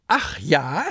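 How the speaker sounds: high, loud stammering sarcasm; mock the monster's excuse; pirate lecturing the kraken; sarcastic scolding. A narrator's reading. Peter keeps scolding the kraken.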